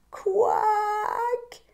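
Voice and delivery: high quack; duck's quack. Acted. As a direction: quack back wearily. Duck's reply.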